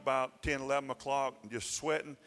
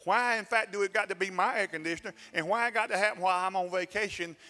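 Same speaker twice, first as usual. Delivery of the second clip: pouting rant; 5 semitones higher than usual. Retold or imitated. Preacher acting out his sulk about the broken air conditioner. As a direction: whine at the unfairness. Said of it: "I'm pouting".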